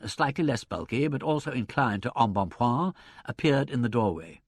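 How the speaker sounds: usual speaking voice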